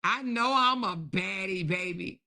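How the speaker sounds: lightly voiced preening diva; imitating Courtney. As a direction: play the self-satisfied baddie lightly. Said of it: "Look how she hold her stomach like".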